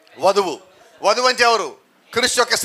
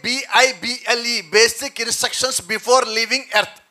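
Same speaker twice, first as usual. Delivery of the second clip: slow spelled acronym; much slower than usual. Shown as a demonstration.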